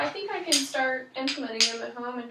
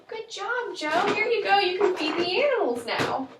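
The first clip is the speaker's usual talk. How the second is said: high, bright gasp then loud praise; excited praise; 7 semitones higher, 5 dB louder than usual. Acted. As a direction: cheer him on, big and high. Parent praising child's good try.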